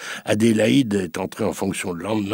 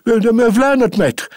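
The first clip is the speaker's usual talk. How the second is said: meek reply; 13 semitones higher, 7 dB louder, slower than usual. Acted. Maid answers submissively.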